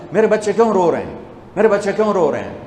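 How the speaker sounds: retold worried, restless plea; anxious questioning. Prophet asking after his crying grandchildren, anxious questioning. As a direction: ask urgently, as if mildly distraught. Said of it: "بے قرار ہو کے پوچھا".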